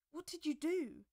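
loud, high, urgent question; demanding. A narrator's reading. Arthur confronting Merlin over the fallen knight, loud and urgent. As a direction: demand an answer at once. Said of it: "Arthur demanded".

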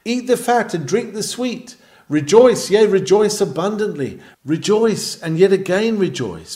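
loud, high, joyful pulpit call; rising into a loud, exultant sermon climax; jubilant exhortation. Acted. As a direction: urge them to rejoice with full voice.

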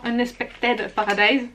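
"Unexpected Paradise" in a slow, clumsy French-accented English; self-mocked English accent. Real, not acted. Vlogger naming a mascara collection, mocking her own English accent. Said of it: "cet accent anglais est toujours magnifique".

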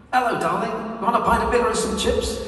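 mock English bloke. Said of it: "he says something like".

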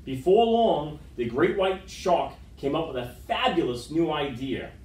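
lively picture-book read-aloud; story narration. A narrator's reading. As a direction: read to the kids with gentle drama.

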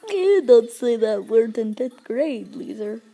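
lightly voiced scolding teacher, loud at the start; put-on teacher telling-off; mock teacher scolding. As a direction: tell off a pupil as the teacher, easing off. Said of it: "and then she goes".

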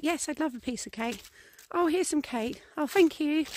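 put-on toddler voice. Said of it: "if you watch toddlers doing a play".

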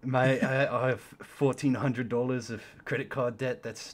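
put-on British accent. Caller confessing debts to a mate, mock British accent. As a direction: imitate a British mate confessing his troubles. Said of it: "I love doing those accents".

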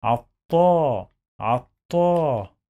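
عطا slowly as "at-taaa"; doubled t in عطا, then a long held "aa"; long alif vowel. Shown as a demonstration. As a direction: stretch the last vowel of عطا. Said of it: "long vowel ألف".

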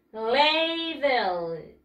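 "Ladle" stretched as "LAAY-del"; model pronunciation. Shown as a demonstration. Teacher tells pupils to repeat, drawn-out model pronunciation. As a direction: draw out "Ladle" for pupils to copy.

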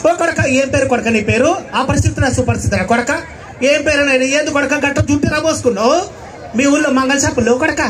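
granny rambling to the stranger; complaining old woman, rising toward the end; lightly voiced fussing grandmother; grandma pleading. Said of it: "బామ్మ తట్టుకోలేక అపరిచితుడు చెప్పింది".

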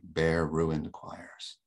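"bare ruined choirs" slow, each word weighted; halting emphasis. Shown as a demonstration. Lecturer marking the most depressing moment, slow halting emphasis. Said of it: "that's an emphasis the poet is giving us".

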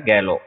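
गैलो said low and clearly, the r silent; pronunciation demo. Shown as a demonstration. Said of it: "रे इसमें silent रहता है". (गैलो का साफ़ उच्चारण, रे साइलेंट)

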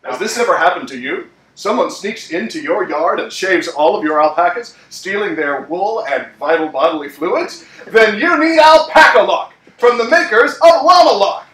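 smooth low ad pitch; infomercial announcer. Acted. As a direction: sell it like a TV ad.

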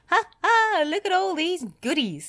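high, delighted exclamation; gleeful character. A narrator's reading. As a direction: crow with delight at a find. Gleeful storybook character finds costumes.

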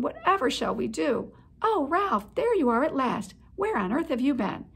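high anxious rush of questions; fretting, near panic; agitated mother. Acted. Mother mouse greeting Ralph, anxious and flustered. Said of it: "Ralph's mother was agitated".

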